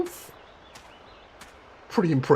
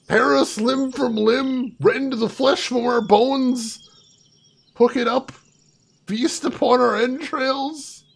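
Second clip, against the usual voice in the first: mock ominous; 4 semitones higher, slower than usual. Sarcastic list of horrors.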